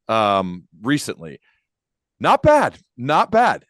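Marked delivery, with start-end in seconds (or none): 2.2-2.8 much higher and louder, playfully exaggerated "Not bad"; wry understatement. Ironic understatement about huge profit. 3.0-3.7 repeated "Not bad", higher and louder but less extreme; wry understatement. Repeats the joke, calmer.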